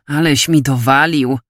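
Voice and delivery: lightly unbothered; easygoing, close to everyday pitch; carefree tone. Acted. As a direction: shrug off the jibe. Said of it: "rzekł beztroskim tonem".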